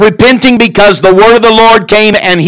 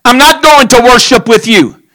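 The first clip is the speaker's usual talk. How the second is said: slow, deliberate refusal, a little higher; firm refusal; 4 semitones higher, slower than usual. Acted. Samuel refusing to worship with Saul, slow and firm. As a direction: spell out each no slowly and firmly. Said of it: "and Samuel said".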